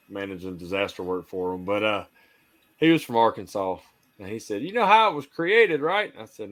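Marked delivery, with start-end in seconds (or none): 4.6-6.1 put-on Southern accent. Old guy telling how Arkansas was created, Southern accent. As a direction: quote him in a raised Southern accent. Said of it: "I love your accent".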